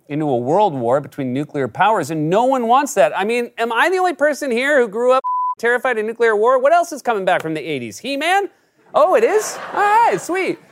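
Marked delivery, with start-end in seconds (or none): 3.2-10.6 excited. Real, not acted. Excited eighties aside.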